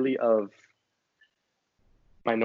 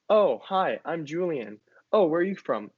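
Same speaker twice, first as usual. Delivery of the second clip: mock small talk; 4 semitones higher, slower than usual. Acted orientation week small talk.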